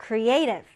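"creative" with the stress placed on -A-; careful stress. Shown as a demonstration. Teacher reads the word for the class with careful stress. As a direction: mind the stress of "creative" and hit its middle. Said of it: "이 단어 강세 주의해서 읽어주세요".

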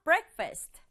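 Breakfast with the a said as 에, stress on the first beat; breakfast pronunciation. Shown as a demonstration. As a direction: say Breakfast as 브렉퍼스트, front-stressed. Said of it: "이 A가 에 소리 나요". (Breakfast 앞에 강조, A는 에 소리)

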